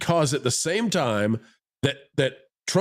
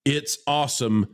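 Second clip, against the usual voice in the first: deliberate all-caps readout; 2 semitones lower than usual. Retold or imitated. Host reads Mark's text to the audience, deliberate all-caps readout. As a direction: spell out each punctuation mark deliberately. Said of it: "Mark says in all caps".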